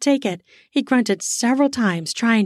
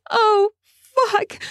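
shouted; 13 semitones higher than usual. Acted. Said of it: "she shouted".

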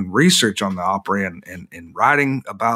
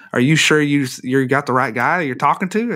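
incredulous; 5 semitones higher than usual. Retold or imitated. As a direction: ask it like you can't believe it. Retold disbelief at security guard.

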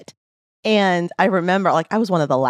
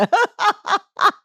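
high burst of laughter. Real, not acted. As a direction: let a bright laugh burst out. Laughs at the banter.

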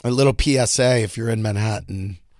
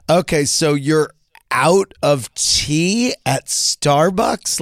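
theatrical; 4 semitones higher, 4 dB louder, slower than usual. Retold or imitated. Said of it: "wanted nothing of my theatrics".

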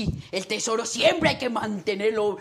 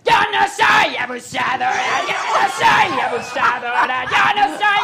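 mock indignant; 7 dB louder than usual. Mock protest after being teased.

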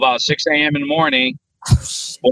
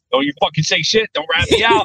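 acted plea climbing much higher; urgent warning; 7 semitones higher than usual. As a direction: beg them in a rising, mock-panicked pitch. Silently warning witnesses not to tell.

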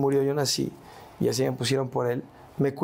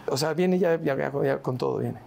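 laughing. Real, not acted. Laughing while explaining.

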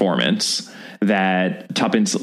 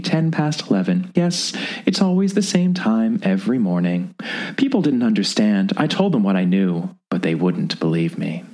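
put-on old woman. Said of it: "said the old lady".

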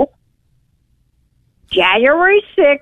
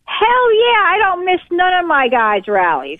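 caller over a phone line; radio show caller. Real, not acted. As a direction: voice through a call-in phone line. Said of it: "go to the phones here".

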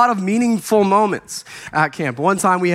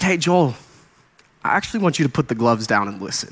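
lower, quieter imagined voice of the Lord; gentle correction; 6 semitones lower, 4 dB quieter, faster than usual. Retold or imitated. The Lord telling Joel to stop fighting, gentle correction. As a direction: calmly rein him in.

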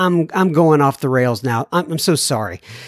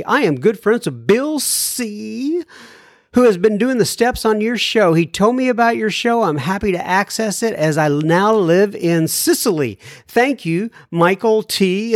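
measured radio host reading; clear, deliberate mail-segment read; letter read aloud; 4 semitones higher than usual. Acted. Reads a listener's letter aloud.

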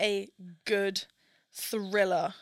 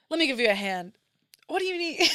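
flat read line; 3 semitones higher, faster than usual. Acted. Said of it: "I'm just gonna read it".

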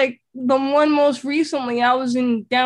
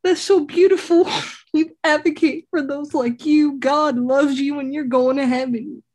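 gushing lady; 2 semitones higher than usual. Retold or imitated. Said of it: "the lady was just like".

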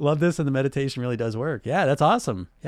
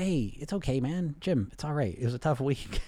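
soft, soothing reassurance; positive voice; 6 dB quieter than usual. Acted. Coach reassuring Jim after a tough week, soft and calming. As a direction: ease a friend down gently. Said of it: "positive voice".

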